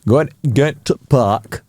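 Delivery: slow imitation of Yorkshire speech. Shown as a demonstration. Showing off a favourite accent, slow Yorkshire. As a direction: lean slowly into Yorkshire vowels. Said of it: "like, a Yorkshire accent".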